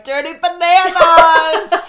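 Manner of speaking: slow, loud, drawn-out cheer; excited call. Retold or imitated. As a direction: call it out like a happy toast. Chanting drink order on vacation.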